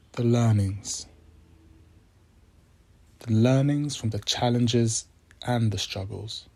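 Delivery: measured meditation voice with long pauses; unhurried, reflective prompts, phrase by phrase; guided meditation. Acted. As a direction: guide listeners gently, leaving space after each phrase.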